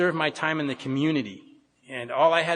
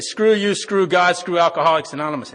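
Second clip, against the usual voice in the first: loud and higher, spitting each screw; mock the grumpy greeter snapping back; retold angry curse; 3 semitones higher, 8 dB louder than usual. Greeter Roy curses at a cheerful hello, loud mock anger.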